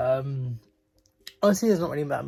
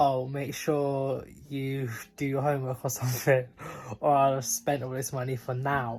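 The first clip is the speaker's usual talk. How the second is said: plain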